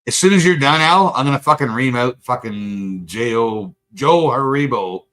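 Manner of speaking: real anger at an online commenter; angry rant. Real, not acted.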